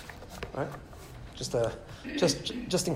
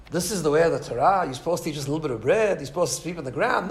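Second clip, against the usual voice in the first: "this is the way of the Torah", "sleep on the ground" lilted as doubting questions; read as a question. Shown as a demonstration. Rabbi rereads the passage, "sleep on the ground" as a question. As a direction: turn "eat just a little bit of bread" into a rhetorical question. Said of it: "supposed to be written as a question".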